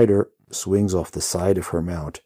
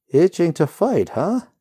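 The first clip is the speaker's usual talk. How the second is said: laughing; 13 semitones higher, 9 dB louder than usual. A narrator's reading. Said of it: "the rider laughs".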